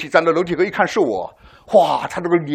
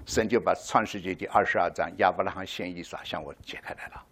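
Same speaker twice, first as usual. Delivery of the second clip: hushed whisper; 9 semitones lower, 10 dB quieter than usual. Real, not acted. Revelation told hushed.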